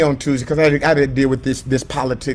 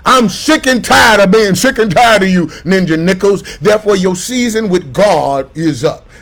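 mock God. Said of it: "God don't look at us and say".

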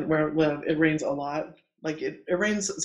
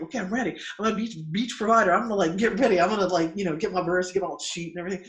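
mock eagerness; 3 semitones higher, 3 dB louder, faster than usual. Mimics own eagerness after training.

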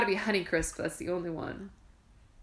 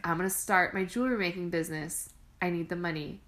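whispered wife's plan; 5 semitones lower, 7 dB quieter than usual. Retold or imitated. Voicing the wife.

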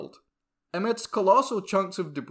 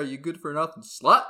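angry; 7 dB louder than usual. Acted. Insult shouted after outburst.

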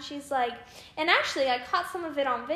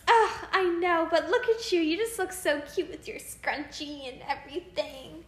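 overly sweet; 4 semitones higher than usual. Retold or imitated. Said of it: "a bit too much".

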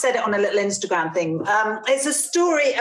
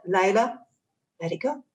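inner voice. Retold or imitated. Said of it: "this voice said".

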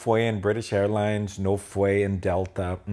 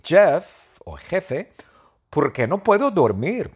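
higher, louder whiny Tom asking for help; Tom's voice; 7 semitones higher, 4 dB louder than usual. Acted. Tom begging the iguana why he can't sleep, higher whine. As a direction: pitch up and plead like a sleepless friend.

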